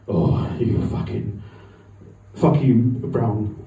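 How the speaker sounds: mock racist snarl. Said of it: "giving it all of the".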